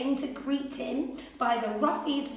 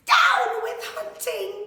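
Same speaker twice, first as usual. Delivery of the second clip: high hooted slogan; hooting; 10 semitones higher, 5 dB louder than usual. A narrator's reading. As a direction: hoot it out like a bird. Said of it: "He hooted".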